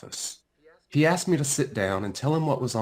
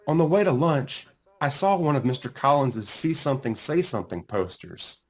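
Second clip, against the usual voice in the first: plain reading voice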